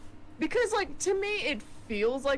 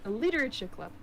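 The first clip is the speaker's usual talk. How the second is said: put-on New Zealand accent; 4 semitones higher than usual. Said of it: "keep using the New Zealand accent".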